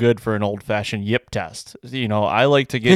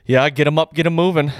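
mimic; 5 semitones higher, faster than usual. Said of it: "that's what you always say".

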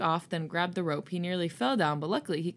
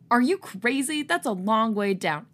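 alarmed; 4 semitones higher, 5 dB louder than usual. Acted. Vernon warns from window.

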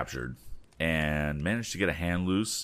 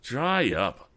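higher, sharp order to shut up; commanding; 7 semitones higher, 4 dB louder than usual. Acted. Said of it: "commanded Sid Holton".

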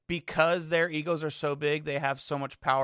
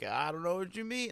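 lightly hammed-up innocent reply; mock dubbed comeback, mildly sarcastic; sarcastic John Boy impression; 3 semitones higher, 3 dB quieter than usual. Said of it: "like, so sarcastic".

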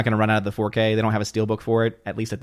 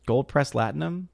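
puzzled repeat; 2 semitones higher, 6 dB quieter than usual. Real, not acted. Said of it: "Did I not say gold pressed latinum".

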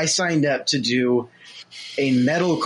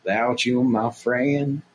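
country voice; 2 semitones lower, slower than usual. Shown as a demonstration. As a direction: sing it like a country crooner. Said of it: "vaguely country-singer-esque".

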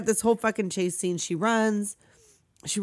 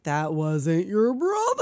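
laughing reveal; 2 semitones lower, slower than usual. Acted.

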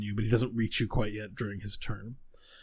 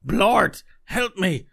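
high, panicked plea, much higher and louder; frightened cry for help; 11 semitones higher, 6 dB louder, much slower than usual. Acted. Hexed woman cries to Blort for help, high and panicked. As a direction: recoil and cry out for her companion in fear. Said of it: "she recoils and she goes".

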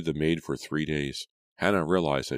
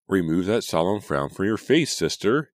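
urging; 4 semitones higher, 5 dB louder than usual. A narrator's reading. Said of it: "Julia urged".

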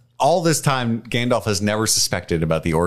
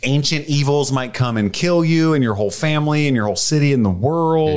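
mock warning; 5 semitones higher than usual.

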